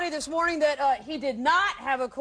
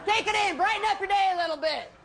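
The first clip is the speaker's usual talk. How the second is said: lightly voiced brash Sally; 3 semitones higher than usual. Sally taunting the men.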